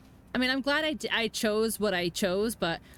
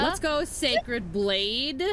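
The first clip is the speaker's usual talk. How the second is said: slow stretched victory cheer; drawn-out cheer; 3 semitones higher, much slower than usual. Real, not acted. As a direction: drag it out, celebrating. Celebrating the boss kill.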